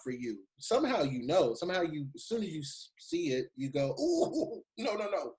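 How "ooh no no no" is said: shocked no, no, no; recoiling ooh. Retold or imitated. Imitated reaction to website.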